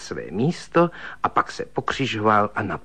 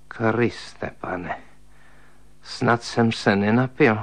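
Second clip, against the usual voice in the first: horrified; slower than usual. Acted. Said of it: "zhrozil se".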